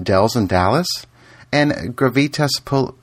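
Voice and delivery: ordinary talk, nothing marked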